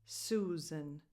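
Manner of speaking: "Susan" with the second S voiced as Z; low, soft "Susan" with a buzzing Z in the middle. Shown as a demonstration. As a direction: say "Susan" as SOO-zun. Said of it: "The second S sounds like a Z".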